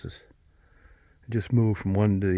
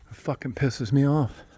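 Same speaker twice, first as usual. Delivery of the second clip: higher-pitched irritated complaint; 5 semitones higher than usual. Real, not acted. Man admitting he is not improving much, irritated. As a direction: vent it in a higher voice. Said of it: "I'm pissed".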